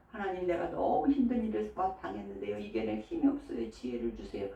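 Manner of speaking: softly voiced plea to God; humble prayer. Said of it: "요 기도하라는 거예요". (나직이 간구하는 기도)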